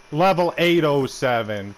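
slow loud jeer; loud mocking taunt. Real, not acted. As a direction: drag it out loud to mock him. Mocking rival's level.

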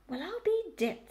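high rustic sheep voice; astonished old ewe. A narrator's reading. Old sheep peering up at a piglet, astonished.

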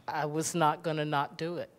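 fast, tearful, half-crying words; pushing through tears of gratitude; real tears breaking through. Real, not acted. Emotional thanks to actors, voice cracking.

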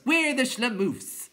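high, drawn-out clown chant; chorus cry. A narrator's reading. Clowns boasting in chorus, high drawn-out cry. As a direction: crow it loudly, stretched out. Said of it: "all cried in chorus".

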